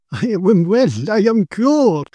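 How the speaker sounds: slow, rising cry of joy; overwhelmed, almost in tears; joyful cry. Acted. Cured paralytic crying out to his rescuer, tearful joyful cry. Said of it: "he cried".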